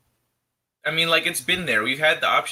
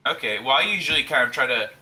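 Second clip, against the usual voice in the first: muffled, boxy mic sound; tin can sound; 5 dB louder than usual. Real, not acted. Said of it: "you sound like you're in a tin can".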